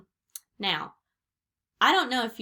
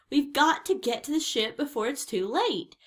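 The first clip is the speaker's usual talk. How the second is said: higher, urgent pirate call; shouting; 6 semitones higher, 3 dB louder than usual. A narrator's reading. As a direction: urge everyone to flee. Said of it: "shouted Pinky".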